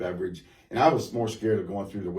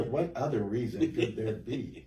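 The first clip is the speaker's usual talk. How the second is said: laughing disbelief; 3 semitones higher, slower than usual. Retold or imitated. Mocking sister's reason for calling.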